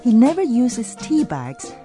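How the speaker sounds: ordinary delivery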